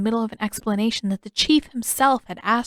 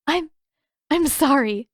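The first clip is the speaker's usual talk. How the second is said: apologizing while giggling, a bit higher; through giggles; 6 semitones higher, 3 dB louder than usual. Acted. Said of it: "Yue managed between giggles".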